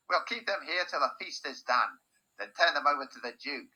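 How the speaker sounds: loud guard voice. A narrator's reading. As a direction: pronounce it over the prisoners.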